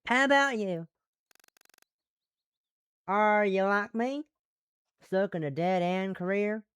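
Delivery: lightly voiced Southern woman; curious question with a hint of Southern accent. Asking a new acquaintance about their career, light Southern accent. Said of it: "one female Western Southern voice".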